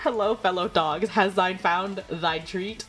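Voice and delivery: slow, stately mock Shakespearean greeting; a lightly voiced archaic noble; mock Old English. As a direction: read it like a pompous old herald. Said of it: "I don't know why that one is Old English".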